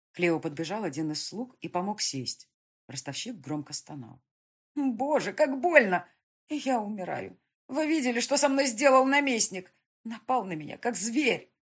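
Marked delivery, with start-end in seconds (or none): 4.7-11.5 high, loud whimpering complaint; whining moan. A narrator's reading. Beaten moneylender whines to the crowd about the colonel. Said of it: "скулил он".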